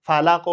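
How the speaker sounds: ফালাক ending in an echoing k; qalqala stop. Shown as a demonstration. Teacher gives ফালাক as a qalqala example. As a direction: bounce the final k of ফালাক. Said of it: "এভাবে উচ্চারণ হবে".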